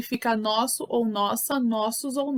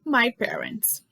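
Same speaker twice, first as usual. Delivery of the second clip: whisper; slower than usual. Real, not acted. Unvoiced whisper aside.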